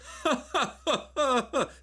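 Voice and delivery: high, honking staccato imitated laugh; Jimmy Carr. Streamer imitating a comedian's rich laugh, loud high mock laughter. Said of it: "He's got a rich laugh".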